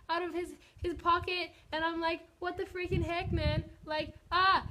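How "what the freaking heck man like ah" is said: high, loud freaked-out yelp; shocked shriek of disbelief; freaking out. Retold or imitated. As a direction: replay the shock at full volume. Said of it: "I, like, freaked out".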